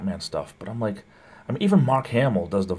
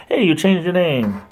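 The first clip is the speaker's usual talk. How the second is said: surprised; 9 semitones higher, 6 dB louder than usual. Real, not acted. Surprised at viewer's new name.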